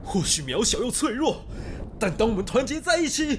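high, rising epic announcer voice; trailer narration. Acted. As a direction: build it up like a movie trailer. Epic trailer narration over music.

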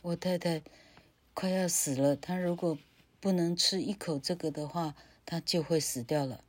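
soft stammering fearful plea; frightened man. Acted. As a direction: stammer it, scared. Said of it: "这个男人说".

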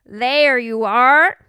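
slow, loud motherly queen; a patient mother. A narrator's reading. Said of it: "said the queen".

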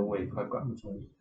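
softly retold fatherly admission; quiet, resigned heart-to-heart tone; earnest, heartfelt. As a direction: say it low-key, meaning every word. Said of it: "他就语重心长这样讲".

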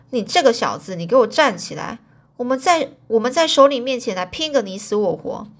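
loud angry storyteller voicing; furious challenge. Baldwin loudly challenges McMurdo to fight in front of the boss, angry. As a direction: bark it out, spoiling for a fight. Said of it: "气得整个暴跳如雷".

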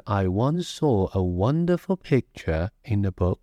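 "a wonderful picture in the book" flowing as one phrase, no extra punch on "wonderful"; one smooth arc. Shown as a demonstration. Teacher reading the whole sentence for students, smooth phrase-level stress. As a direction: carry "I once saw a wonderful picture in the book" over in a single curve. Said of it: "一整个弧形的这样过去的".

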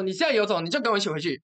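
reenacted angry dare; retold challenge. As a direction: dare him to come back with you. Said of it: "我就大骂".

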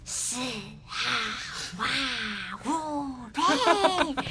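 halting, drawn-out magic incantation; imitating a gamer casting spells. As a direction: chant odd syllables one by one. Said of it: "这个要念咒语啊".

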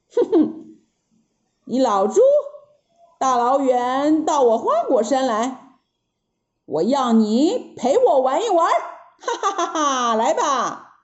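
playful monkey laughing at Pigsy; teasing Monkey King. Acted. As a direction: tease him, then laugh. (孙悟空笑着逗八戒)

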